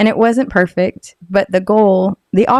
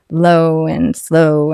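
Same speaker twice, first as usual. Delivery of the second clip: low and slow; 3 semitones lower, much slower than usual. Shown as a demonstration. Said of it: "I had to use a lower pitch".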